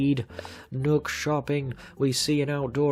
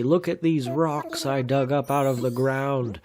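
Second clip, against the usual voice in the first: eager questions; 3 dB louder than usual. Acted. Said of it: "and I say".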